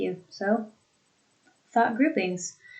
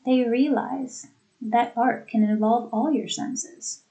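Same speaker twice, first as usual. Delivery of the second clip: "They realize", short break, "that art can involve all your senses" smoothly; brief break after "realize"; fluidity and pause. Shown as a demonstration. Teacher repeating the example, short break after "realize". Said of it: "you have that fluidity, that pause".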